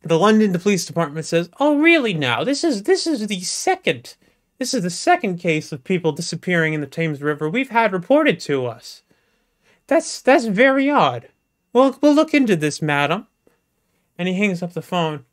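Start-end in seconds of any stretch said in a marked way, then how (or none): 1.6-13.3 surprised officer. Acted. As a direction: play a fussy constable reassuring the caller. Officer replies to caller.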